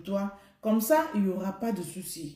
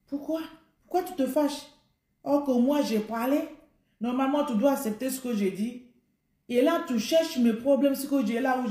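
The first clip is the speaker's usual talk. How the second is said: higher, indignant wife scolding her husband; a wife's hurt, accusing questions; offended wife; 3 semitones higher than usual. Retold or imitated. Wife complaining to her husband, in a higher indignant voice.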